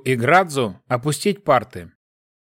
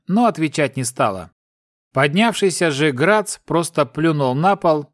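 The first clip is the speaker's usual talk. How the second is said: ordinary delivery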